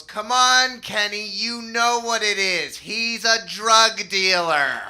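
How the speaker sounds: high, loud, exasperated mom; a mother certain she knows the answer. Retold or imitated. Mom telling dad their son is a drug dealer, high and loud. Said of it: "And my mom goes".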